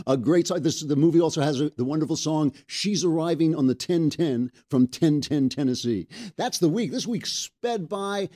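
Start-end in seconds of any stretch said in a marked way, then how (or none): none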